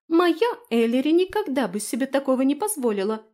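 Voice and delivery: high, loud tiny fairy voice; high-pitched indignant fairy; angry little squeak. A narrator's reading. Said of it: "гневно трепеща крылышками пропищала Лу".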